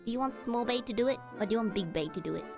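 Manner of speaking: ordinary talk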